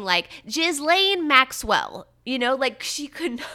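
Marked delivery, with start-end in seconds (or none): 0.4-2.1 "Ghislaine Maxwell" slow and loud, like a clumsy attempt at French; mock bad French. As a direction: drag out "Ghislaine Maxwell" as a fumbling learner. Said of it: "She would have been saying".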